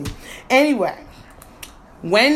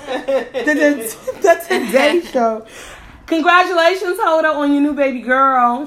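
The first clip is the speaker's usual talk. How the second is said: excited shout-out; 4 semitones higher, 3 dB louder than usual. Real, not acted. Shout-out to Hoda.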